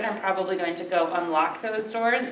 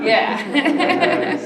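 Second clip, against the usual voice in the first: laughing; 7 semitones higher, 4 dB louder than usual. Real, not acted. Host laughs at joke.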